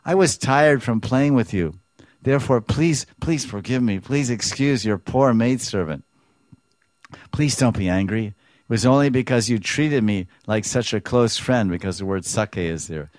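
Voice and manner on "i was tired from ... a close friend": raised, higher pleading plea; pleading Radharani. Acted. Radharani humbly begging Krishna to forgive her.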